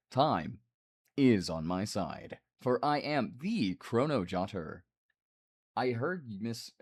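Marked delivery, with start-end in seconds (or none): 0.1-4.8 slow, mechanical robot reading; flat computer voice, like Microsoft Sam. Acted. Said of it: "where I can do the robot voice".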